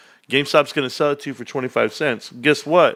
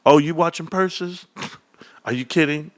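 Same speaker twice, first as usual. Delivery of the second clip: higher, lightly acted cocky friend; Reek; 4 semitones higher than usual. Friend Reek to a girl watching purses, lightly imitated amused disbelief. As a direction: play the amused wingman, slightly higher. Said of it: "Reek's like this".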